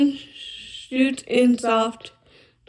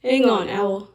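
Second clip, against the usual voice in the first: calling after Owl a little louder; raised voice calling across the wood; 4 dB louder than usual. Acted. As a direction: call him back before he goes. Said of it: "called Badger".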